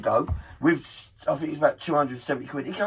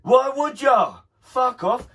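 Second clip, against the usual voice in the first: indignant; 7 semitones higher, 5 dB louder, slower than usual. Real, not acted. Indignant rant about charities.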